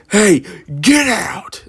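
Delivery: high, drawn-out mock yell; retold scream. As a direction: imitate a fed-up worker yelling someone out. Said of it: "Like, screamed".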